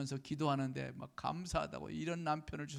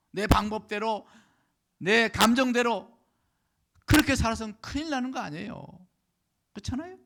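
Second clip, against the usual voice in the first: loud, high, emphatic pulpit delivery; preaching at full force; 9 semitones higher, 12 dB louder than usual. Real, not acted. (힘주어 외치는 설교)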